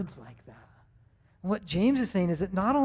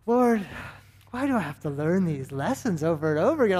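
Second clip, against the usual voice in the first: louder, pleading cry then a quick rush of words; exasperated plea to God; 3 dB louder, faster than usual. Retold or imitated. Pastor retelling his fed-up prayer while cleaning pools, exasperated plea. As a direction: cry out to heaven, fed up with yourself.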